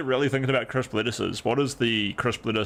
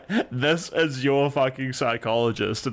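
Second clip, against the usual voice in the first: higher, laughing through words; 4 semitones higher than usual. Real, not acted. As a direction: snicker as you say it. Laughing after clip.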